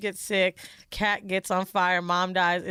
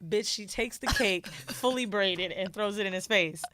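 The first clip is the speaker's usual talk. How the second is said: normal talking voice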